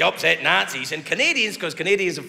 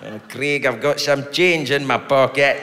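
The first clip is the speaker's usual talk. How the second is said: creepy neighbour; 5 semitones lower, slower than usual. Retold or imitated. Imitating creepy neighbour McGugan.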